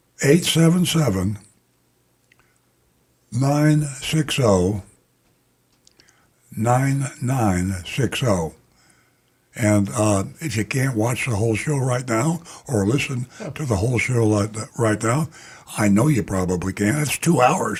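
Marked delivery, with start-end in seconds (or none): 0.2-8.5 very slow, deliberate, drawn-out delivery. Speaker reading out a phone number for listeners to write down, speaking very slowly. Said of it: "the reason I speak so slowly".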